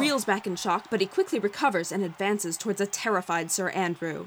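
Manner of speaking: excited ringside announcer; fight commentary. A narrator's reading. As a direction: call the round like a boxing match. Narrator calls the fight.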